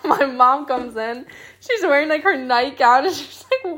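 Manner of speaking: high, laughing through the story; can barely get it out for laughing; giggling while retelling mom bursting in. Real, not acted. Laughing retelling mom's reaction.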